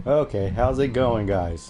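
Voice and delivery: big, loud hello to the chat; testing the mic with a loud hello; loud test greeting. Shown as a demonstration. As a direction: belt the greeting out for the mic check. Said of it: "sound check".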